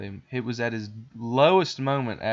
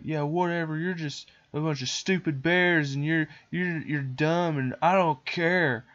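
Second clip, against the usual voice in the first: higher-pitched sulky brush-off; hammed-up bratty defiance; mock dismissive boy; 5 semitones higher than usual. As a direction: imitate a kid scornfully waving them away.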